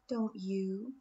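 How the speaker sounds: breathy whispered tag question; whispered taunt. A narrator's reading. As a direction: hiss the question softly at her.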